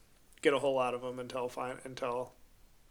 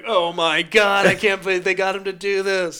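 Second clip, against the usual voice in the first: amazed fan; 5 semitones higher, 8 dB louder than usual. Pretend. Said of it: "And you were like".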